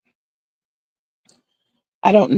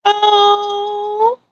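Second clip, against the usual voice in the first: high oh; 14 semitones higher than usual. Real, not acted.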